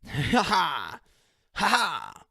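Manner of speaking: laughing at his own rambling; loud laugh. Real, not acted. Laughing out loud at his own nonsense.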